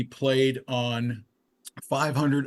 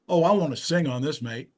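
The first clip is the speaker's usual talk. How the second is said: higher imitation British accent; 3 semitones higher than usual. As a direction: imitate the British singer on the phone. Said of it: "with a British accent".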